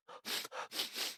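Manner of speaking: audible searching sniffing; sniffing the air. A narrator's reading. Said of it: "sniffing the air".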